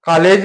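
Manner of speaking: कॉलेज said as "kaalej", with a plain long आ; wrong way. Shown as a demonstration. Teacher showing students the wrong pronunciation. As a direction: say कॉलेज wrongly with a flat open आ. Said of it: "भी नहीं कहते हैं".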